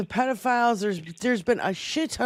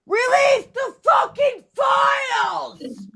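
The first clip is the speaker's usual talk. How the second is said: high, drawn-out scream at full lung power; top-of-the-lungs slow yell; 12 semitones higher, slower than usual. Real, not acted. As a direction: scream it like a fed-up protest chant. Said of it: "screaming at the top of my lungs".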